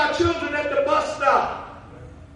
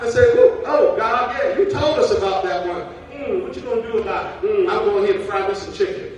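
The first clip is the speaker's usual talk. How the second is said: God voiced; 5 dB louder than usual. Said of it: "God is sitting on the sideline saying".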